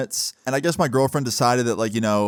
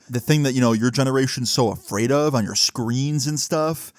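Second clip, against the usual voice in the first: boomer rant. Retold or imitated. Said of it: "he was just being like a boomer".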